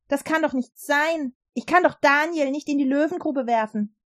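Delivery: dismayed. Acted. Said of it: "rief er erschrocken".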